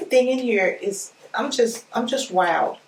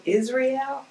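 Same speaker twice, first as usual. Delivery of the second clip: amazed disbelief; 6 semitones higher than usual. Real, not acted. Amazed it's from Israel.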